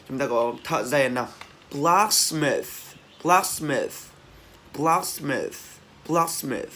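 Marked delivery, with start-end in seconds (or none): 1.7-6.7 "blacksmith" pitched up, with an airy TH ending; teacher drilling the last sound of "blacksmith"; released final TH. Shown as a demonstration. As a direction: let the breath hiss out at the end of "blacksmith". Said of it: "cái âm T H mà chúng ta bật hơi ra".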